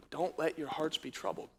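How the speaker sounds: very soft, low comfort; gentle reassurance. Retold or imitated. Jesus comforting disciples before the cross, gentle reassurance. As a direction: settle them with a hushed, low voice.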